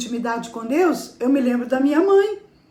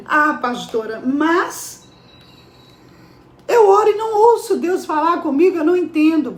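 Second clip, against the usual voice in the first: mock complaint; 3 semitones higher than usual. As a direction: burst into a quick, mock objection. Voices a congregant's complaint to her.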